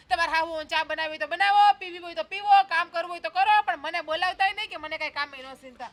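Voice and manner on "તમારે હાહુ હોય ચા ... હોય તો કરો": louder, dismissive retort; defiant outburst. Acted. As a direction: snap back at them. Defiant outburst in family quarrel.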